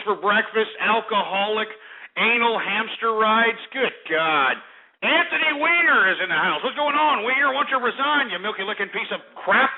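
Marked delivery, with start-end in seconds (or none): 5.0-9.7 hyped heckling. Acted. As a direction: heckle him like a rowdy host. Mock heckling host.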